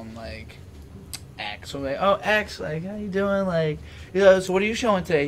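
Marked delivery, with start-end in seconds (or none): 2.0-5.3 higher-pitched cheery teacher; lightly voiced chirpy teacher; teacher greeting pupil. Sister greeting a kid on Zoom, cheery.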